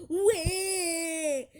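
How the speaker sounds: put-on high, drawn-out baby wail; mock crying. Vlogger mocking a hater who might cry, fake wail. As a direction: wail it long and high, faking tears.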